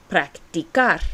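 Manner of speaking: practicar with the C as a clear "k"; hard K sound. Shown as a demonstration. Teacher explaining C before A, practicar with a K sound. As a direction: say practicar with a hard K in the last syllable. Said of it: "it's going to sound like a K sound".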